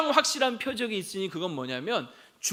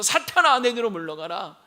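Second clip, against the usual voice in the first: loud first word, then easing off; retold scolding; 6 dB louder than usual. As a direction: act out a brief rebuke, hitting the name hard. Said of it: "호통을 치신 것이죠". (첫마디를 크게 호통치듯 인용)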